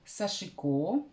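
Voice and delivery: "Сашико" stressed on the final O, sa-shi-KO; pronunciation variant. Shown as a demonstration. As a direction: land on a long last syllable in "Сашико". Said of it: "что я нашла".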